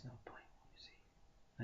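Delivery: slow fading whisper. Acted. Man under the tree letting go, whispered. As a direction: let it go in a whisper.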